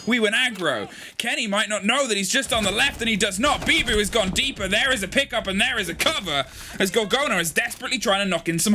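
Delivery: rising, energetic caster call over the action; live play-by-play. Acted. Co-caster calling the round live for the audience, energetic play-by-play. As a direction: ride the action like a live shoutcaster.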